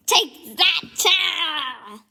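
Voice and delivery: loud, triumphant yell; battle cry. Acted. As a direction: shout it as you strike. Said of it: "Explosion Man's like".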